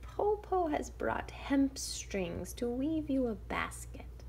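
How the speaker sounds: high, slow, breathy whispered wolf; whispering wolf. Acted. Wolf soothing the girl with a lie, whispered. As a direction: hiss out a sly excuse. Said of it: "the wolf said".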